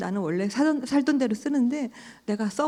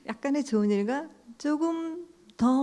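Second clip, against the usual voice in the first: laughing through "조금 더", pitch higher; amused laughing repeat; 5 semitones higher than usual. Shown as a demonstration. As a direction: chuckle at the irony as you repeat it.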